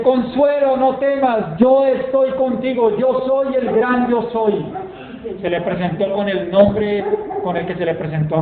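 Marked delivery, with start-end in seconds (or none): 0.0-4.6 voice of God. Retold or imitated. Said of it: "la voz del Señor le dice".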